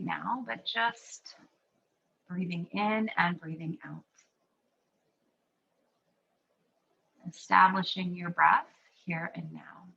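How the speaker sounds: calm, unhurried guidance with long pauses; guided breathing meditation. Real, not acted. Leads a guided breathing practice.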